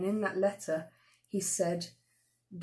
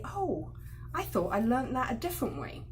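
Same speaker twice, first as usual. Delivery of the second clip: polite; 3 semitones higher than usual. Shown as a demonstration. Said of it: "you can politely say".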